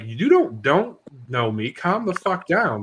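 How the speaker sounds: heated retold comeback; recounting a confrontation with some heat; retold indignation. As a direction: push back indignantly, slowing on the last words.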